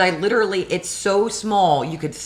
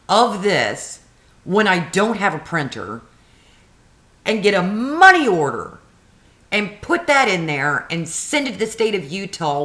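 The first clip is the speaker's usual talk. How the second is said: retold angry rant. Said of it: "I'm like".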